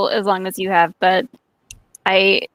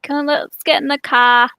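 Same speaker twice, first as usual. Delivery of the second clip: put-on childhood Boston accent, slightly higher; 5 semitones higher than usual. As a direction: imitate your little-kid Boston accent, dropping the r. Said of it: "I had a slight Boston accent".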